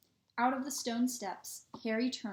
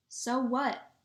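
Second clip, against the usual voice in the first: louder, defiant shout; 3 semitones higher, 5 dB louder than usual. A narrator's reading. Boy shouts back at friends who warn him, defiant and louder. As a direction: fire it back at them. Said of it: "Harry shouted".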